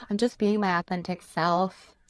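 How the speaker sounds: Gen Z voice, mock earnest; lightly voiced Gen Z quote; ironic zoomer. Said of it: "that's my Gen Z voice".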